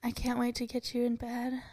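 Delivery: sexy talk. Pretend. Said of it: "give me some sexy talk".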